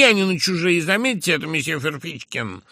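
high, loud indignant outburst; bursting out. A narrator's reading. The narrator bursts out at Ferfichkin over his own money. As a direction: finally break out, furious and proud. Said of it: "прорвался я наконец".

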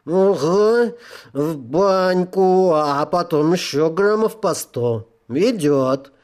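slow, cheery tipsy soul; happily drunk agreement; drunk sinner voice. Acted.

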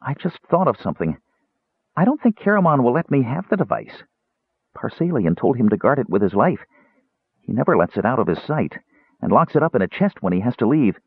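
lightly voiced anxious kender; worried kender. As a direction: fret aloud in a naive voice.

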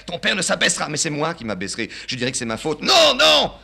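put-on high, insistent old man; father urging his son onto the train, high; agitated father. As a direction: press the son to come.

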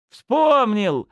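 high, loud happy cry; joyful exclaim. Acted. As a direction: burst out with the memory. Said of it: "обрадованно воскликнул он".

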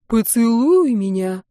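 slow, squeaky mock plea; thin little voice. A narrator's reading. Dustin teases Sunny, lips pursed, mock-thin voice. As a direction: put on a silly thin voice to tease. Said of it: "тонким голоском выдаёт этот идиот".

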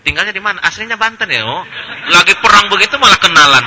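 a touch of a casual fighter making small talk; chatty soldier. Acted. Soldiers chatting mid-battle, joke.

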